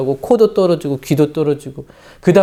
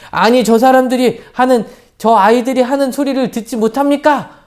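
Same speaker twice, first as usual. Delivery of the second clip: higher, pressing complaint; indignant protest; 7 semitones higher than usual. Retold or imitated. High priest complaining to Jesus, mock indignant. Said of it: "막 예수님께 따졌는데".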